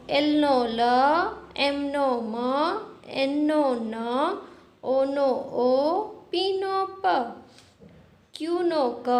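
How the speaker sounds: drawn-out recitation, holding each letter sound; phonics reading drill. Shown as a demonstration. Teacher showing children how to read letter sounds, drawn-out drill. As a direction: recite letter by letter, stretching the sound, pausing between pairs. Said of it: "આપણે કઈ રીતે વાંચી શકીએ".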